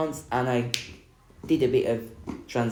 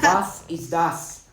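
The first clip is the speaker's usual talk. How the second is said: slow and higher, spelling it out for the phone; slow, clear German; 6 semitones higher, 4 dB louder, much slower than usual. Shown as a demonstration. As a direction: enunciate each word so the translator catches it. Speaking German into translator.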